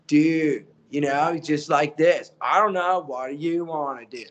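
dopey Canadian hoser voice; Canadian accent, stresses landing on odd syllables. Retold or imitated. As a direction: play the dumb Canadian dude from the commercials. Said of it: "he sounded very Canadian".

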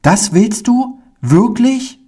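very high, eager questions; can hardly believe his luck; disbelieving joy. Acted. Pauli asks the kind man in very high, joyful disbelief. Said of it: "ganz rot vor Freude".

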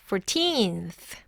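put-on "Fourteenth" with long falling "teenth"; short "Four", stressed "teenth"; second-syllable stress. Shown as a demonstration. Teacher telling learners where stress goes, "Fourteenth" stressed on "teenth". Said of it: "뒤에 음절에 강세를 주세요".

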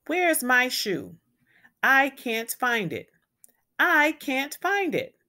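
put-on rising upset child's whine, pitch climbing; a frustrated kid who can't find his shoe. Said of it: "He was frustrated".

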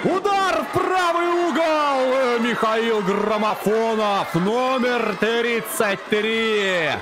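drawn-out goal call; goal yell. Acted. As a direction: stretch out the scorer's name. Penalty goal called slowly. (протяжный крик гола)

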